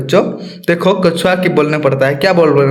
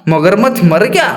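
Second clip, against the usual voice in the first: surprised. Acted. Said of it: "आश्चर्य होकर पूछा".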